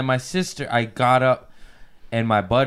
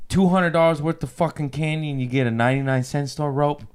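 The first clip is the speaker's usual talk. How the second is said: retold yell; 4 semitones higher than usual. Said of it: "I yelled at my sister".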